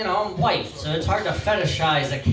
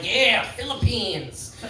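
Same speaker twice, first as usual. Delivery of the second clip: dreamy swoon; 4 semitones higher, much slower than usual. Retold or imitated. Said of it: "look at him and be like".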